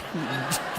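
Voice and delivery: a quick breathy chuckle off mic; short soft laugh. Real, not acted. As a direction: laugh softly at the joke. Laughs at own joke. (mahinang tawa)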